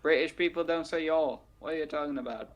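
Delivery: badly faked British accent, mimicking someone; loosely imitated British accent. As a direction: do a poor mock-British impression. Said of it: "This isn't a British accent either".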